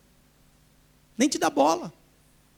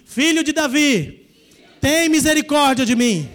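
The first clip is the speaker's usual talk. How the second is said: crying out in prayer; 2 semitones higher, 4 dB louder than usual. Shown as a demonstration. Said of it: "Fala comigo assim".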